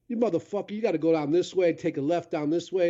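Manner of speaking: rough local guy. Retold or imitated. Voicing gas station locals.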